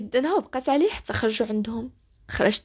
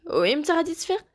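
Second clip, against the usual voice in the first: higher, hopeful question about his sister; happy eager question; 6 semitones higher than usual. A narrator's reading. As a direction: ask it with rising relief and joy. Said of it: "بدر بفرح قال ليه". (سؤال بفرح ولهفة)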